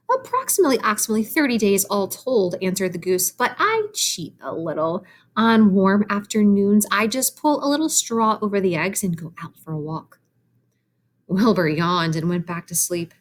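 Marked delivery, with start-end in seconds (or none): 0.1-10.2 a hint of a goose confiding she cheats; chatty goose. Voices the goose.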